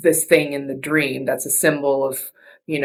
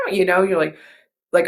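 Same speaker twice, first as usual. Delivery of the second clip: ordinary delivery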